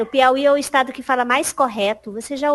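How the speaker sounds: ordinary talk, nothing marked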